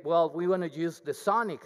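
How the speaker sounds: normal talking voice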